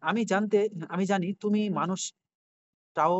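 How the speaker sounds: drawn-out pointed question; emphatic question. Retold or imitated. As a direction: stretch each word to pin the AI down. Reading his own question aloud.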